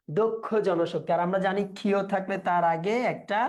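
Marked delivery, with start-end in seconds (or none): 0.1-1.1 দক্ষ জনশক্তি with "dok-kho", said slowly; closed pronunciation. Shown as a demonstration. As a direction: give দক্ষ a closed o, slow and clear. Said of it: "সংবৃত উচ্চারণ হয়".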